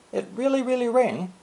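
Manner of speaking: "really, really" pitched high and stressed; emphatic really really. Shown as a demonstration. Teacher showing the doubled form as strong emphasis. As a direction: lift "it really, really rain" way up on both reallys. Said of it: "That's why".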